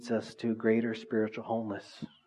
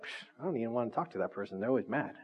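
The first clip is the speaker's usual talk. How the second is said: dismissive scoff; 6 dB quieter, faster than usual. Retold or imitated. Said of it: "you're like".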